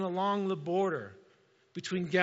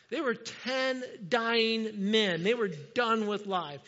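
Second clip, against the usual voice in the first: preaching shout; 3 semitones higher, slower than usual. Real, not acted.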